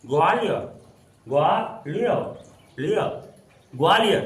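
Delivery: ग्वालियर sounded out as "gwaa-li-ya"; English-style pronunciation. Shown as a demonstration. Teacher has students try saying it, ग्वालियर split and stretched as "gwaa-liyar". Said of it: "इस तरह से बोल के देखो".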